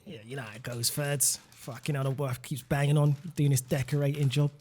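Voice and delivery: low-key put-on grumble, vaguely Australian; Australian-sounding accent. Playing a mate moaning about the wife, Australian-sounding accent. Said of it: "Seriously, you sound Australian".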